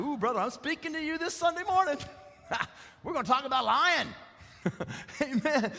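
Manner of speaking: high, laughing tease at a brother; a playful warning with a laugh; teasing laugh. Retold or imitated. Teasing a man at the meeting, laughing and high. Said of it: "And I said".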